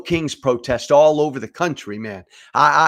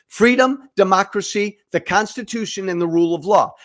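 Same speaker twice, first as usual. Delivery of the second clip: impassioned list; 6 semitones higher, 4 dB louder than usual. Real, not acted. Shouted list of founding values.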